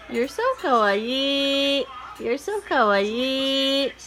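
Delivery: slow doting praise. Real, not acted. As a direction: linger over the compliment lovingly.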